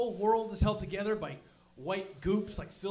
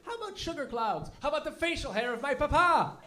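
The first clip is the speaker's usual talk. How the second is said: mock French inventors; 5 semitones higher than usual. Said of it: "What the hell were they thinking?".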